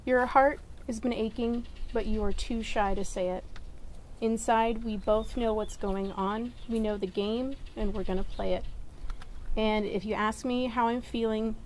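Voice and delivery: saying wedding vows. Acted. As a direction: speak your vows tenderly. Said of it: "Jeanette, you start".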